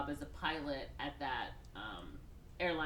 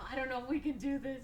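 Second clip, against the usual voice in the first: laughing; 7 semitones higher, faster than usual. Retold or imitated. Hesitant sister, laughing.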